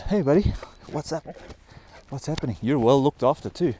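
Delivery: high, bright greeting to a pet; talking to a dog. Real, not acted. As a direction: chirp hello to a dog.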